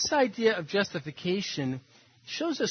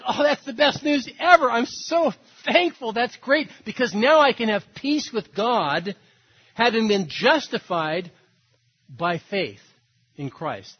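higher and louder, overjoyed; elated; 4 semitones higher, 4 dB louder than usual. Retold or imitated. Grateful listener answering the preacher about the good news, elated. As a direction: gush with grateful relief. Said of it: "Or they get elated".

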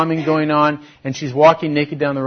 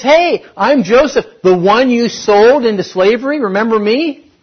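blunt confrontation; 9 semitones higher, 9 dB louder than usual. Pretend. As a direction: bring it right out in the open. Joseph confronting his brothers.

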